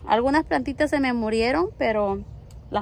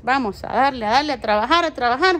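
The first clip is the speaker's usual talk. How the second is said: cheering on; 4 dB louder than usual. Real, not acted. Cheering her son on.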